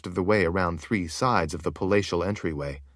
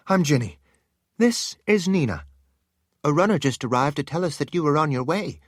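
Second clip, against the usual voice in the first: put-on higher, light young woman's voice; eager palace woman; 6 semitones higher than usual. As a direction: chatter like exciting gossip.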